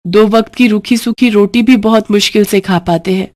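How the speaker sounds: a poor wife fretting to her husband; worried wife. Acted. Narrator voices worried wife.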